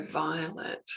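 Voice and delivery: a hushed, knowing call of her name; soft calling. Retold or imitated. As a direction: call Violet softly. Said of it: "like this".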